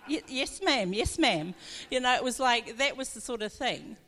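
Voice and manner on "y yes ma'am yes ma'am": startled, louder, half-laughing compliance; a laughing mock-obedient yes ma'am; meek yes ma'am. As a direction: snap to attention like a scolded kid. Meek reply to bossy cousin.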